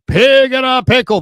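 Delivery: high, loud sponsor holler; loud radio-plug shout; mock yelling. Real, not acted. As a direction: belt out the name, stretching it. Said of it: "if you mock yelling".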